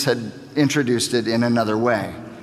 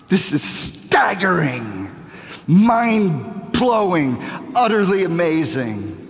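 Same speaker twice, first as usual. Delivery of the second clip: amazed; 2 semitones higher than usual. Real, not acted. Preacher marveling to the congregation, slow and amazed. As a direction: stretch it out in awe.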